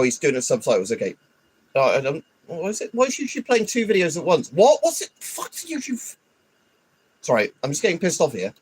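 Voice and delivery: ordinary talk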